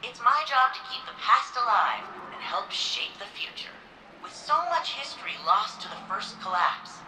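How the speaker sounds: formal guide voice, measured and proud; museum tour narration. Acted. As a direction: welcome visitors like a recorded exhibit guide. Recorded museum tour greeting.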